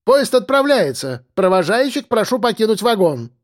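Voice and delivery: nasal conductor announcement. A narrator's reading. Conductor announces departure to people on the platform, high and nasal. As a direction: whine "Поезд отправляется" like an annoyed train conductor. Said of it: "Громко и противно прогнусавила проводница".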